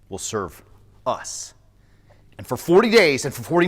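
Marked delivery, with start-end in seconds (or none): 0.1-1.5 lower, softer, sinister close; low menacing finish. A narrator's reading. Giant finishing his threat, low and quiet menace. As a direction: drop low and quiet on the last words.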